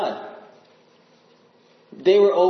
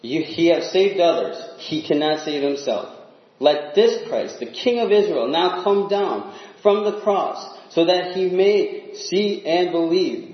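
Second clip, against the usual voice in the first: mocking sneer; 3 semitones higher than usual. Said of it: "were mocking him among themselves".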